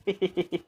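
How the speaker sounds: short giggle before speaking; chuckle. Real, not acted. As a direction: let out a quick, knowing chuckle. Mocking debate, laughs before reveal.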